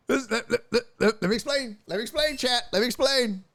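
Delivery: high, giggling stammer; laughing. Real, not acted. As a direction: try to talk through laughter. Laughing while explaining.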